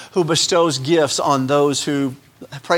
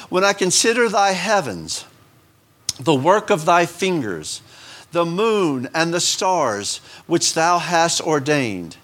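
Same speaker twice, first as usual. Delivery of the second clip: slow scripture reading; slower than usual. Acted. Reading scripture slowly, reverently.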